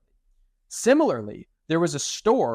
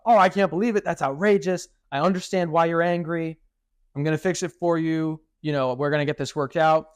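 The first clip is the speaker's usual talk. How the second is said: match their outrage, then calm them down; outraged then reassuring; 2 semitones higher than usual. Shown as a demonstration. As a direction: sympathetic service voice that cools down. Calming an upset customer.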